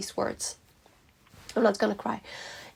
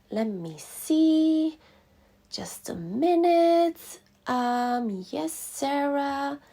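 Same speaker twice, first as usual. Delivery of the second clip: slow, high sing-song receptionist stalling; imitated phone assistant, drawn-out and high; searching assistant; 6 semitones higher, much slower than usual. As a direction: draw out each word while checking records. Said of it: "And she was like".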